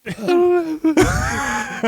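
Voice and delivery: high mock-crying noise; imitated whimper. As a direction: imitate his helpless strained whine. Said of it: "he looks and he goes".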